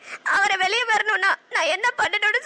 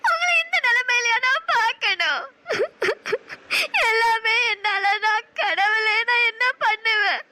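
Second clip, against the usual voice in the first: anguished crying; slower than usual. Acted. Sees beaten lover in jail.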